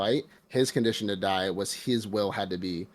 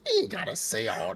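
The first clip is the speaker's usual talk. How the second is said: exasperated retort; 11 semitones higher than usual. Retold or imitated. Retorting to the crow.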